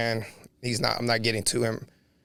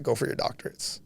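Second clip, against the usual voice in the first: softer, barely-there dying father; weak dying words; 7 dB quieter than usual. Retold or imitated. Son recalls his dying father's last words, faint and fading. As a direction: let the words slip out faintly, like a last breath.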